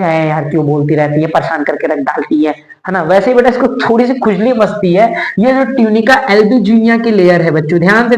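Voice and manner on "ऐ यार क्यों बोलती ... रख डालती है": lightly voiced complaint, low and under the breath; mock grumble about mum's chores; grumbling child. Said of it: "जब mummy कुछ काम बोलती है".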